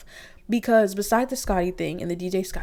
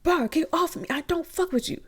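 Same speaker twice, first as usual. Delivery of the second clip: imitating Anna; 10 semitones higher than usual. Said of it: "she's like".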